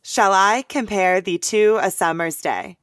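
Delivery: loud beats on I, PARE, THEE, SUM, DAY; iambic stresses. Shown as a demonstration. Co-host scans the sonnet, every second syllable stressed. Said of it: "Five iambs".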